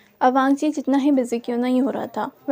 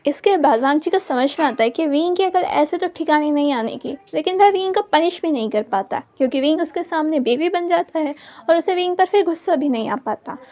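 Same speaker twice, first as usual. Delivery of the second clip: ordinary delivery, nothing marked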